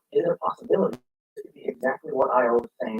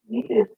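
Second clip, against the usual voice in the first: needed said alone, higher and slow; stress on needed; 6 semitones higher than usual. Shown as a demonstration. Narrator stressing needed to the audience. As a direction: lean hard on needed. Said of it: "I can't emphasize that word enough".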